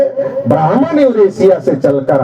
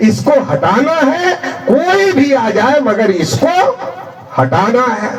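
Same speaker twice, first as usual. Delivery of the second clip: higher, half-laughing imitation of angry voters; laughing mock anger; 3 semitones higher than usual. Angry voters vowing to remove the ruler, mock rage with laughter. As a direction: mimic the crowd's fury through a laugh. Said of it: "गुस्से में आ गए तो कहा".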